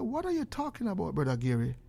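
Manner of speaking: lightly voiced puzzled boy; soft, questioning child's reply, imitated; little boy. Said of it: "Me see little boy".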